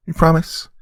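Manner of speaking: put-on high, hopeful child voice; little girl. Daughter asking mother for story, little-girl voice. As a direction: ask sweetly as a small girl.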